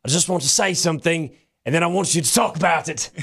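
put-on Roy Kent accent. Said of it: "now you have to do the accents now".

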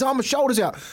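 high-pitched mock cry of pain; mock screaming. Injured dad telling helper about his shoulder, mock pained cry. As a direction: retell an injured dad's wail. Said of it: "He's screaming".

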